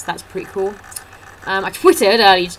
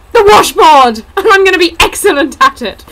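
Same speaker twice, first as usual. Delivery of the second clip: much higher, louder proud cry with a laugh; laughing mock pride; 9 semitones higher, 10 dB louder than usual. Pretend son telling his mum he'll play washboard, laughing. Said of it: "imagine that conversation with his mum".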